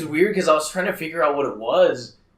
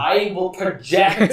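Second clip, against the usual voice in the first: slow, higher, over-projected; mock projecting; 5 semitones higher, slower than usual. Told to project, hammed-up projection. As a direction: boom it out like a stage voice. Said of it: "Or you can project the whole time".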